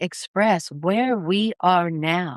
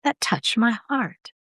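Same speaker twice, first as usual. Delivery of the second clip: heartfelt. Shown as a demonstration. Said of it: "We say that".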